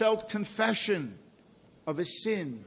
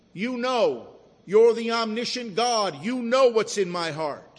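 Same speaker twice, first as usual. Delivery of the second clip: raised, insistent voice; emphatic appeal; 3 semitones higher, 5 dB louder than usual. Retold or imitated. Peter appealing to the Lord who knows hearts, loud and emphatic. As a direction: appeal firmly, punching the words.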